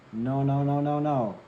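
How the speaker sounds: loud, firm repeated no. Acted. Reader cuts off the doubting swords, loud and firm. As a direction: shut the doubts down.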